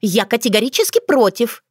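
put-on girl refusing to go home, indignant. A narrator's reading. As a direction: dig in, offended. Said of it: "возмутилась она".

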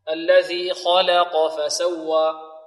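slow recitation, heavy KHA and QAF, light LAM in "خلق"; measured "خلق": thick first and last letters, thin middle. Shown as a demonstration. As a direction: draw it out, keeping only the "ل" of "خلق" light. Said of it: "لا تقلل".

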